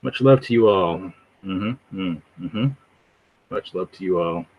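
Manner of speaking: laid-back streamer impression, idly filling time; Vocab, flat tone. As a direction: mumble along while checking comments, mock low-key. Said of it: "like, flat tone. He's just, like".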